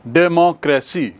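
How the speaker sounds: डेमोक्रेसी in four distinct beats; syllable by syllable. Shown as a demonstration. Teacher recapping examples, डेमोक्रेसी split syllable by syllable. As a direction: space out every syllable of डेमोक्रेसी. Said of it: "जैसे मैंने बताया".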